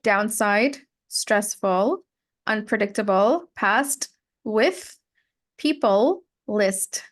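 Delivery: each word's ending clearly sounded, as in past, list; enunciated final consonants. Shown as a demonstration. Teacher reading a word list, final consonants of past and list enunciated. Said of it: "enunciate more on".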